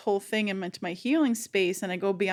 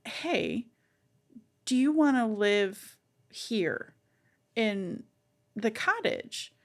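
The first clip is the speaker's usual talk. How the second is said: gentle invitation; slower than usual. Retold or imitated. Asking her inner child to move in, gently coaxing. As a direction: invite a small child kindly. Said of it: "loving on her".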